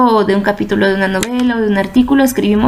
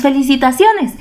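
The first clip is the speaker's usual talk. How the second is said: happy exclamation; 4 semitones higher than usual. Shown as a demonstration. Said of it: "cuando estamos muy alegres decimos".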